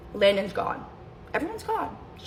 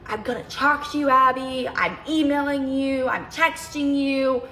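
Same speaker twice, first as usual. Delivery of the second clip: mock ex-boyfriend; 4 semitones higher than usual. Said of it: "He's like".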